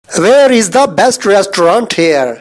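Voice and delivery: restaurant said slowly with a clear English ending; restaurant pronounced. Shown as a demonstration. Hindi teacher showing how to say restaurant. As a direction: stretch out each word of restaurant. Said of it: "रेस्टोरेंट pronounce करेंगे".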